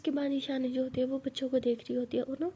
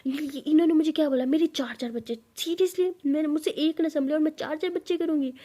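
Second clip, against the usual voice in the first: angry rant; 4 semitones higher than usual. Acted. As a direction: vent the insult in anger. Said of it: "परी बहुत गुस्से में कहती". (गुस्से में शिकायत करती परी)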